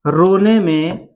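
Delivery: रोने में with the vowels lengthened; रोने में, धीमा और खींचकर; slow, drawn-out रोने में. Shown as a demonstration. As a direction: stretch रोने में out like a wail. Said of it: "तो मैं बता दूं".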